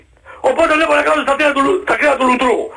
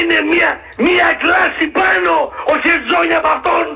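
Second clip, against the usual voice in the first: raised voice; 3 semitones higher than usual. Real, not acted. Caller insisting on a player's class to the host, raised voice. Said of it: "Ήσυχα, Αναστάση".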